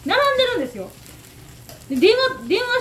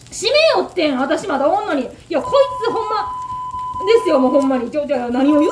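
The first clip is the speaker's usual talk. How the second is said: indignant; 5 dB louder than usual. Real, not acted. Door closed on her.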